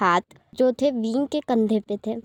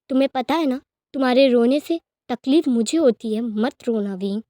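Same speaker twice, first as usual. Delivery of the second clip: loving vow; 8 dB louder than usual. Acted. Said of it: "कुछ lines मैं यहाँ pronounce करूँगी".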